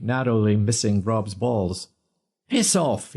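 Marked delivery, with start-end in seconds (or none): 2.5-3.1 roared. A narrator's reading. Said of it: "he roared".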